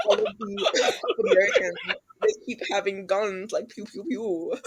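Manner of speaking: mock British accent breaking into laughter. Brit joking about Americans' guns, mock British accent. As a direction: giggly attempt at British accent. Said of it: "That's our best British accent ever".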